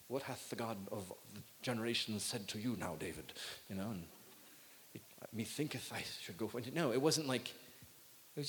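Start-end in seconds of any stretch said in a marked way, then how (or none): 0.1-3.3 hammed-up archaic churchy voice, lower and trailing off; mock old English. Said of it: "all old English". 5.3-6.7 lightly put-on archaic phrasing; mock old English. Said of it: "all old English".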